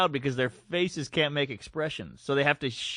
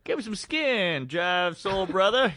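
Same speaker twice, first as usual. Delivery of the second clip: slow, higher seventies jive voice; seventies Black voice; 3 semitones higher, slower than usual. Retold or imitated. Comic mocking a pandering guy, seventies Black jive voice. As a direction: draw out a mock seventies Black greeting. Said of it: "All of our black stuff is seventies black".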